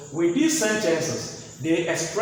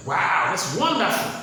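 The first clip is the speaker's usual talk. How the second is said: mildly raised, admiring exclamation; surprised; 3 semitones higher, 3 dB louder than usual. Acted. Receiving a beautiful gift from somebody, mildly surprised. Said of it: "you are so surprised at the work".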